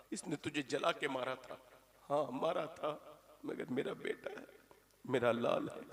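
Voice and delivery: hushed mother begging mercy for her son; soft mother's plea. Acted. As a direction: plead gently to God. Mother begs God to forgive.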